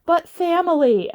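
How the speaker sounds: mockingly pleading; mock sentimental plea. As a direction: mimic a sappy family appeal. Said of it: "them all being like".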